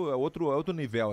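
"nível" said the Spanish way, stressed on its last syllable; Spanish-style nível. Real, not acted. Guest describing palace luxury, "nível" stressed Spanish-style as ni-VEL. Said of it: "porque é em espanhol, nível".

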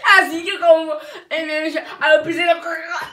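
loud, laughing exclamation; laughing loudly. Real, not acted. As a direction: burst out laughing as you say it. Laughing chaos while eating.

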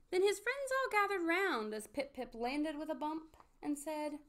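deliberate storybook ending; story narration. A narrator's reading. Narrator closes Pip-Pip's tale for children, storybook narration. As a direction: read the closing moral to children with measured pauses.

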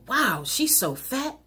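slow, snide mock remark; catty gossip. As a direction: sneer it out like a gossip. Mocking gossip about another woman.

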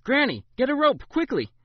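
loud, high urgent call; shout. A narrator's reading. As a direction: shout to Granny while pinning him. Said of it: "she shouted".

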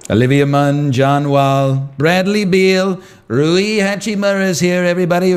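Trump impression. Streamer riffing names in his Trump voice. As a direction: shout out the names like a rally. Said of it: "in my Trump voice".

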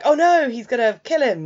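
hammed-up dread for the hero; mock alarm. Viewer seeing the knife thrown, mock alarmed.

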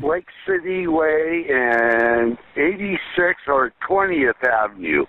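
slurring. Real, not acted. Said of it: "He's slurring his words".

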